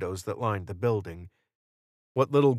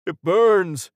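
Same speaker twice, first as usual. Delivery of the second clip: high, loud cry of pain; pained shout; 9 semitones higher, 8 dB louder than usual. A narrator's reading. Wounded Carmine crying out about his eye, shouting. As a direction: shout it out as if burned. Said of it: "Carmine shouted".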